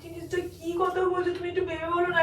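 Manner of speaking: pleading through tears; a tearful appeal to think it over. Real, not acted. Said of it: "এই তুমি কান্না করছো".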